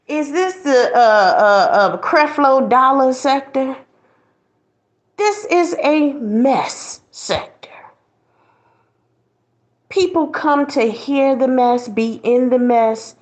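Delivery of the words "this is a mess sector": slow whispered punchline. Acted. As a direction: lean in and whisper it.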